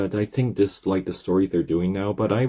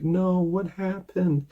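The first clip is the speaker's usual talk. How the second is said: squeaky high voice; 12 semitones higher than usual. Acted. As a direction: squeak out the apology as the pitch keeps climbing. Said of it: "what happened to my voice there?".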